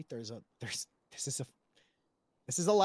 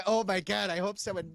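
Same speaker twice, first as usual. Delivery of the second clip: slightly raised, mock-worried exclamation; mock panic; 3 semitones higher than usual. Mocking the claim about the radio call, mock panic. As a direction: play up a fretful plea. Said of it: "me being like".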